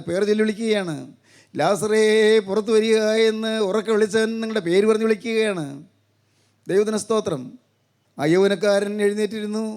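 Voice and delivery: sustained, declamatory sermon delivery; preacher's level, insistent intonation; preaching. Acted. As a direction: proclaim it steadily to the congregation.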